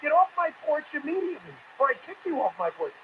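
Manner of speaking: mock-outraged get off my porch; angry homeowner. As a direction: snap back at the fool on your porch. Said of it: "I'd be like".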